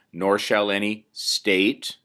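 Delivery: "state" dito mais devagar e com peso; stress on state. Shown as a demonstration. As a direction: lean hard on "state", slowly. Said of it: "notice the emphasis there on the word state".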